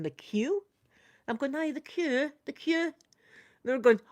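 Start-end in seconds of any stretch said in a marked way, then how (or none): 0.0-0.6 mock-puzzled American echo, rising at the end; puzzled query. Americans questioning a Scottish visitor's word, puzzled query. 1.5-2.9 higher-pitched insisting on THE QUEUE; retold insistence, pitched up; insistent repeat. Scottish visitor repeating her word to baffled Americans, insistent.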